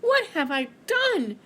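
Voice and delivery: slow, high dismayed sigh; a touch of rueful sighing. Acted. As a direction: let it out with a sigh of regret. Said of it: "he said with a sigh".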